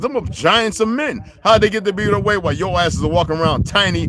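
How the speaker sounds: high, loud, ranting tirade; heated rant. Real, not acted.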